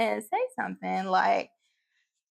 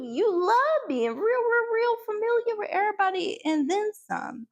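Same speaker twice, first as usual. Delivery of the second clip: rising sass; 6 semitones higher than usual. Retold or imitated. Calling out Colin, rising fervour.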